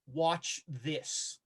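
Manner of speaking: low, hushed aside; mouthed words. Acted. Game master plays Nitocris looking at Hollister, mouthed words. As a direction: say it softly, as if only mouthing it. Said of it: "she mouths the words".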